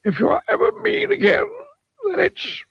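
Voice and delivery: high wizard voice with a touch of sternness; stern wizard. A narrator's reading. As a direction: warn him with mock menace. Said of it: "he added sternly".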